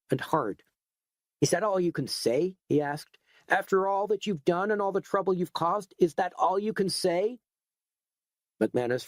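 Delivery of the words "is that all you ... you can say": much higher, outraged demand; indignant. Acted.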